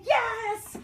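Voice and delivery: high loud whoop; excited cheer. Real, not acted. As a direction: whoop for the dog. Cheering the dog.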